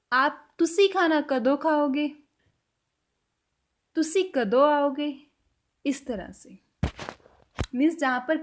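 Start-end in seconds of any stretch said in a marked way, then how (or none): 0.1-5.1 slow, clear example sentence; slow Punjabi example. Shown as a demonstration. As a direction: say it slowly for learners. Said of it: "Punjabi में कैसे बोलेंगे". (धीमे, साफ़ उदाहरण वाक्य)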